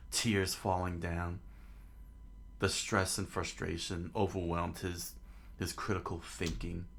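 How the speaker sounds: measured narrator reading aloud; understated storyteller; story narration. A narrator's reading. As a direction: narrate the scene evenly.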